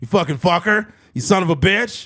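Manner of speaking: loud, high outburst. Retelling a funny voiceover clip: Alex Jones impression. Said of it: "you ever heard that clip with Alex Jones".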